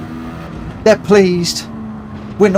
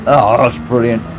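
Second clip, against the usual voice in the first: ordinary talk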